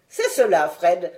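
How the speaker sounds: plus fort, ton de vieux savant satisfait; vieillard souriant. Acted. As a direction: approuver avec un sourire dans la voix. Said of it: "dit le vieillard en souriant". (le docteur approuve Fred, en souriant)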